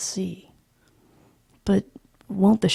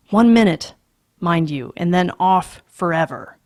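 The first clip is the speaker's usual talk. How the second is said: loud curt concession; irritated father; 6 dB louder than usual. Acted. Father grudgingly grants children one minute, loud. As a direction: grudgingly lay down the limit.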